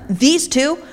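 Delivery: loud complaining accusation; mock-indignant slave owners before the leaders. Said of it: "you know what they say".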